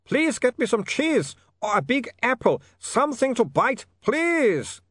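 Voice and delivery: slow, high, begging vampire; desperate pleading. A narrator's reading. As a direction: plead for food, trembling. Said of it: "Otto wailed".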